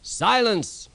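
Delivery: high, sharp call for silence. A narrator's reading. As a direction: cut everyone off at once. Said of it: "said the Fat Controller".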